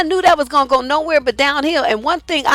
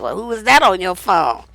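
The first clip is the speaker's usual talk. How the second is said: lower, suspicious jealous question; nasty accusing tone; 5 semitones lower than usual. Retold or imitated. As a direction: mimic his snide accusation. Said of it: "with this fucked up tone".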